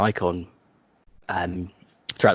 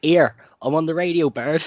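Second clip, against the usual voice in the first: loud mock radio presenter; 5 semitones higher, 5 dB louder than usual. Mocking the other's radio voice.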